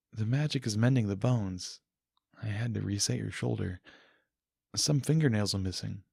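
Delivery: tend to him gently as a healer; hint of a soothing royal voice. Celestia tends his wounds.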